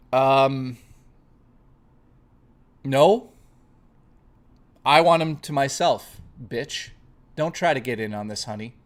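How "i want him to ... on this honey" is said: mock catty. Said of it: "that got heated".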